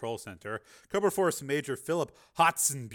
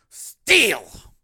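high, loud yell; explosive shout; shouted name; 8 semitones higher, 13 dB louder than usual. Acted.

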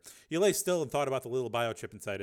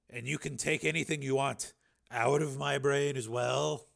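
nervous; 4 semitones higher, 4 dB louder than usual. Acted. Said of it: "swallowed nervously".

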